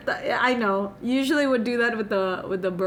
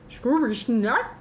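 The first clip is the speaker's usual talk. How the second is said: slow, drawn-out Scooby Snack; Scooby-Doo voice; slower than usual. Shown as a demonstration. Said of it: "I sound like Scooby-Doo".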